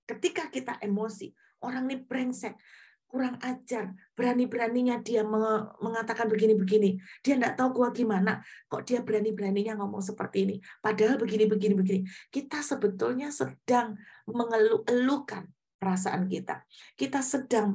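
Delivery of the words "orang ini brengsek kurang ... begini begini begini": mock-offended inner rant; indignant grumbling. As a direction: act out someone fuming to themselves. Voicing angry inner complaint.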